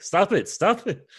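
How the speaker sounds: high, loud, slow whine; hammed-up plea to be left alone; mock protest. Mimicking him pushed around.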